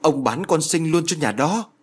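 high-pitched, shocked question; restrained storyteller's scream; crying out. A narrator's reading. Wife realising the second daughter was sold, high outcry. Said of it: "bà ta gào lên".

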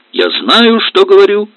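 high, loud cry to back off; shout. Acted. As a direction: stop her mother cold. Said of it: "крикнула Лида".

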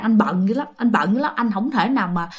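gentle coaxing. Retold or imitated. Boyfriend excuses himself from driving her home, gently coaxing. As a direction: mildly soothe them with excuses. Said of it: "Cũng dịu, cũng dỗ".

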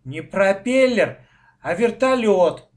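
loud, drawn-out correction; emphatic childish contradiction; correcting. A narrator's reading. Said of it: "поправил его Лёшка".

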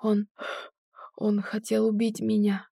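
gasping, broken phrases; short of breath, choking words; shallow breathing. A narrator's reading. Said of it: "задыхаясь". (задыхаясь)

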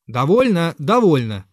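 shouting. Acted. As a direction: shout them down to stop the fight. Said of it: "кричал Зверков".

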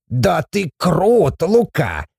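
high, drawn-out dwarf cheer; admiring exclamation. A narrator's reading. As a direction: gleefully praise a friend. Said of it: "воскликнул Абаддон".

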